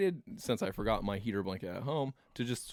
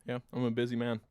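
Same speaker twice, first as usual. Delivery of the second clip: talking while chewing gum; words around a piece of gum; 3 semitones higher than usual. Real, not acted. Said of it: "Let me get rid of my gum".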